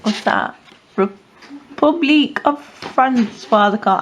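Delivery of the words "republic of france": slow, hammed-up French accent; a deliberately bad French accent; lightly put-on French accent; rubbish French accent. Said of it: "I've got a rubbish French accent".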